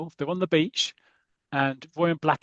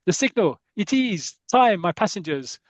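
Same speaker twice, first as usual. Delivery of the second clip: sinister driver; 5 semitones higher, 4 dB louder than usual. Retold or imitated. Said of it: "he goes".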